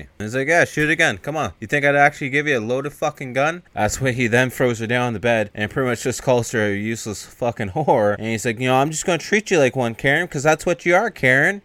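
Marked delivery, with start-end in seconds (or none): 0.5-3.6 raised, higher-pitched jeer; mock taunting. Pete goads Karen over the empty gun, mock taunt. 8.6-11.6 quick, high-pitched retold threat; mock threatening. Davis threatens Karen on the bed, mock anger.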